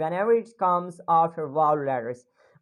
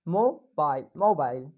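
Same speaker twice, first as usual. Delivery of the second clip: "mobile" rising on mo, falling on bile; British rise-fall intonation; 4 semitones lower than usual. Shown as a demonstration. Teacher demonstrates British intonation, rise-fall on "mobile". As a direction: lift the first syllable of "mobile", then let it drop. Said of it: "rising the sound of mo and then".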